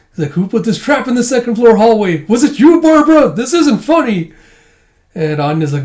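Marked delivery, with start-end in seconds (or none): 0.3-4.3 high, loud befuddled complaint, slowing at the end; indignant old man. Retold or imitated. Old man stuck on the logs scolds his wife, high and indignant. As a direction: scold an invisible wife like a lost grandpa.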